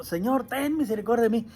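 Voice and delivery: mild demonstrated cry to be heard; calling out. Shown as a demonstration. Showing how the blind man begged Jesus, mildly calling out. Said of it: "Y le gritaba para que lo escuchara".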